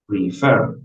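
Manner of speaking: "prefer" leaning on FER; stress on last syllable. Shown as a demonstration. Teacher repeating the example for students, "prefer" stressed on FER. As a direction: put the force on the end syllable of "prefer". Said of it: "en la última".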